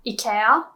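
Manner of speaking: "ikea" as ee-KEH-ah, rising tentatively; Swedish-style pronunciation. Shown as a demonstration. Teacher guessing how Swedish people say it, tentative rise. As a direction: try "ikea" with an ee at the start. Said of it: "Swedish people would pronounce".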